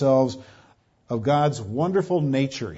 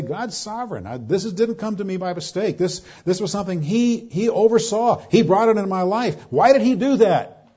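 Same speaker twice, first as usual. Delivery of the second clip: complaining believer; 5 semitones higher than usual. Retold or imitated. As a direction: voice a Calvinist's aggrieved protest, building to the question. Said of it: "We say".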